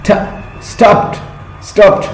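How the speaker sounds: "ٹھا" alone, then "اسٹاپڈ" ending in T; high-pitched, separate repeats of "اسٹاپڈ" as "stopt"; final T sound. Shown as a demonstration. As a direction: demonstrate the T at the end of "اسٹاپڈ". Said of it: "ڈا نہیں، ٹھا sound".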